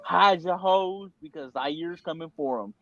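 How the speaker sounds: lightly put-on weatherman delivery; newscaster voice. Friend joking through tomorrow's forecast, mock newscaster voice. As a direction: deliver a mock forecast with measured anchor phrasing. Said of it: "I was doing a newscaster voice".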